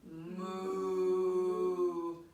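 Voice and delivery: low playful moo; cow moo. Pretend. Teacher mooing for the cow pose, low and playful.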